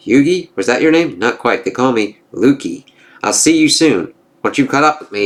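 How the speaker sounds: lightly voiced gods trading taunts; storybook reading of a Norse comic; comic dialogue read-aloud. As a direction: read the panels with a hint of character.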